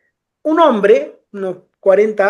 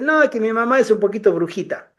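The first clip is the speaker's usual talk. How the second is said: ordinary talk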